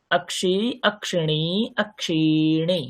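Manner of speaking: অক্ষি, অক্ষিণী, অক্ষিণী said slowly, each vowel length drawn out clearly; slow syllable-by-syllable teacher demo; careful demo pronunciation. Shown as a demonstration. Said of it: "খেয়াল করবেন কোথায় পার্থক্য হচ্ছে".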